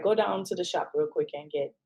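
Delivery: put-on lightly Jamaican-accented errand order. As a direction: slip into a hint of Jamaican accent. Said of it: "I don't know why I said it with an accent".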